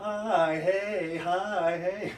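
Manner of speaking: put-on stereotypical girly voice, very high and very slow. Showing a female avatar made from a photograph: put-on stereotypical girl voice. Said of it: "my stereotypical girl with a camera".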